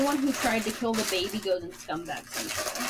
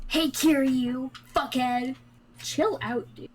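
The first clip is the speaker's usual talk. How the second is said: Jingu impression; 2 semitones higher, slower than usual. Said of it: "Jingu was voiced by everybody's favorite".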